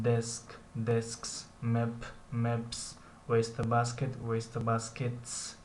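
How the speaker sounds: "دسک", then "دسکس" with a hissed s added; singular, then s plural. Shown as a demonstration. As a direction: contrast each pair, ending "مپس" in an unvoiced s. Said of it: "اما در اینجا اس".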